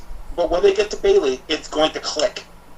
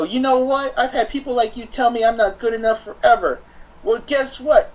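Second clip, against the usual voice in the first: defiant Bayley; 6 semitones higher than usual. Retold or imitated. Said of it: "Bayley would go".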